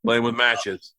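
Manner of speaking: low, slow, soft and grave; dad's voice. Retold or imitated. Dad warning his son about matches, imitated low, grave voice. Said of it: "And he goes".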